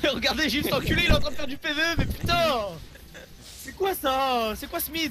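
outraged excitement. Real, not acted. Outraged at an enemy player.

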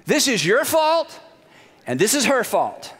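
hammed-up self-righteous husband; mock indignant Adam. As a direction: play the offended victim for laughs. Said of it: "In other words".

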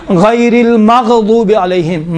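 slow المغضوب with an unbounced غ; measured tajweed demo, no qalqala on the غ of المغضوب; pronunciation demo. Shown as a demonstration. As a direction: recite المغضوب carefully, letting غ rest without an echo. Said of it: "تلفظ کرتے وقت".

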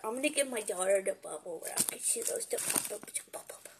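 soft whisper. Real, not acted. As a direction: whisper it so she won't hear. Whispering about daughter.

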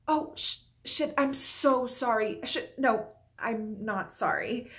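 lightly played flustered landlord; second take. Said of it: "that one felt like".

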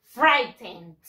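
frightened said "FRY-tend", stress up front; teacher's clear "FRY-tend"; correct pronunciation. Shown as a demonstration. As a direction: model "frightened" clearly with a final D. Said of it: "Se pronuncia de esta manera".

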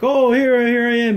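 high, loud cocky hero entrance; hammed-up show-off. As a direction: announce yourself like a vain flirt. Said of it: "And he's like".

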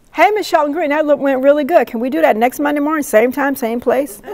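high, bubbly organizer pitch; eager request. Retold or imitated. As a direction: rush out an eager, upbeat ask. Acting an enthusiastic organizer's request.

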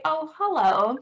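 bright, welcoming hello to the shame voice; friendly greeting to inner voice. Shown as a demonstration. Teacher greets her shame voice, welcoming and friendly. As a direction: greet it like an old friend dropping by. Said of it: "Just say".

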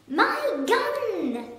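high, loud yell; angry shout. Acted. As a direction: bark the order at the gardener. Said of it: "the Duke was shouting".

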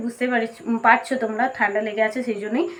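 hoarse from a cold; rough throat from a cold. Real, not acted. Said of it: "আমার গলা বসে গেছে".

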